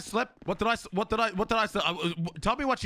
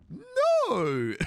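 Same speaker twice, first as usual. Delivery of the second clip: slow words broken by laughter; laughing; 14 semitones higher, 4 dB louder than usual. Real, not acted. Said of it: "You hear the laugh in his voice".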